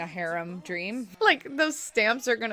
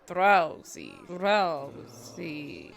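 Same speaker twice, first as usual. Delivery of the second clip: imitated Dracula accent, sinking lower; 3 semitones lower, much slower than usual. Viewer repeating Drowsy's name for fun, mock Dracula accent. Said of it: "Sounds like Dracula".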